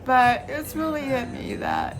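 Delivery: crying while talking; tearful and shaky; blubbering. Real, not acted. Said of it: "Shouldn't be crying on my birthday".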